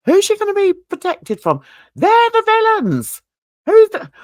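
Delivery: high-pitched, building indignant outburst; getting hyper. Real, not acted. Reacting to a comment about police protection, getting hyper. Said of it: "I mustn't get hyper".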